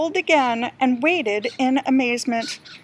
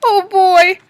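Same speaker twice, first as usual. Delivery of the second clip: put-on loud, high "oh boy" at the wrecked kitchen; dismayed exclamation; 5 semitones higher, 10 dB louder than usual. Peter sees the monkeys wreck the kitchen, loud dismay. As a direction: blurt it out in shock.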